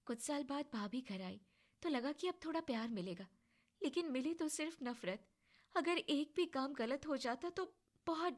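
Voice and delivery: put-on soft, hurt voice telling old pain; hushed and sorrowful; sad confession. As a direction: quietly open up about a lonely past. Payal recounts her painful past.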